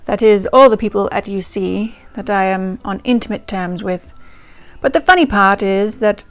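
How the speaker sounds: reading the diary aloud in a light, put-on English accent. Reading Vivian's 1928 diary to viewers in an English accent. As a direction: channel the Queen, in an amateur English accent. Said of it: "We try it in an English accent".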